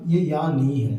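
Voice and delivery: यानी slowed with a long final "nee"; correct long ending. Shown as a demonstration. Teacher contrasting spellings for students, यानी drawn out. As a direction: say यानी as "yaa-neee". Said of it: "बड़ी की मात्रा आती है".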